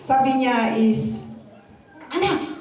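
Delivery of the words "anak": father calling out. Retold or imitated. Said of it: "biglang sumigaw ang ama".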